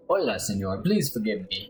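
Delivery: lightly voiced Spanish-accented stranger; hammy Spanish accent. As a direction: greet politely in an amateur Spanish accent. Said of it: "my horrible accent".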